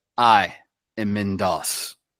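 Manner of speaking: very low, deep robotic voice. Game narrator voicing a figure announcing itself, in a robotic Mindos voice. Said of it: "you hear the robotic voice say".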